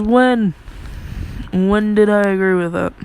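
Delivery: a mock outraged when; indignant disbelief. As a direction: protest like you never agreed. Zoro protests he never agreed.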